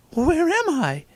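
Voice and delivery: very high character voice; high, put-on questioning voice; high-voiced Jesus. A narrator's reading.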